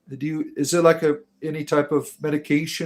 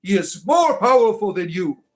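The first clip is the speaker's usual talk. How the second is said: mock doom prophet; 3 semitones higher than usual. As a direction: proclaim the doom of Cthulhu. Preaching Cthulhu doom.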